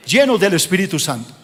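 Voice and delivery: "llenos" leaned on hard at the start of the phrase; "llenos" punched as the key word of the line; stress on llenos. Real, not acted. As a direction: hit the word "llenos", then move on. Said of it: "enfatizo la palabra llenos".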